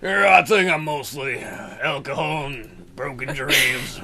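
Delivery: put-on slow slurred drunk talk. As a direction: slur it like you're tipsy. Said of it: "do your drunk voice".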